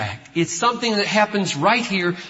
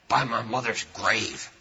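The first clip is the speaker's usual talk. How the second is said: quoted oath; 11 semitones lower, 8 dB quieter than usual. Retold or imitated. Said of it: "Oh, what does that mean?".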